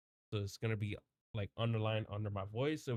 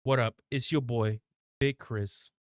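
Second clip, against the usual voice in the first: hype intro; 3 dB louder, slower than usual. Shown as a demonstration. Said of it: "should I put in the king?".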